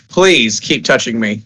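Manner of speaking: slow low creepy whisper-soft plea; low slow creepy naked stranger. Acted. GM voices naked man, creepy plea.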